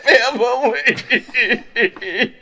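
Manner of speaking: high, loud, drawn-out wail; hammed-up bawling on a slow line; mock crying. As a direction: blubber it loudly for laughs. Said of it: "he starts crying uncontrollably".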